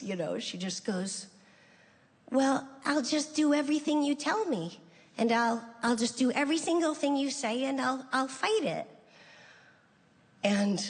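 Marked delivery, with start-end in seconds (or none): 2.3-8.9 lightly voiced sister, higher pitch; mild higher-pitched impression of a resolute sister; imitating Janice. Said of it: "her reaction is so Janice".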